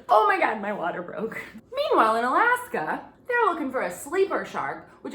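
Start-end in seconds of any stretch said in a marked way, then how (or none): 0.1-1.4 mock panic. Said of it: "traumatic moment where it's like".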